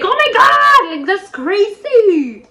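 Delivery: high mock scream, stretched out at the end; excited screaming. Girl and best friend sharing big news, screaming. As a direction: shriek along, drawing out the words. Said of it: "I was, like, just screaming".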